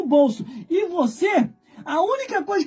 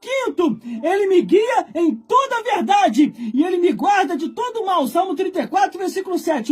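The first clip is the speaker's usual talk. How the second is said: fiery preaching; 5 semitones higher than usual. Retold or imitated. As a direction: preach it out, testifying at full force. Preaching to the old man.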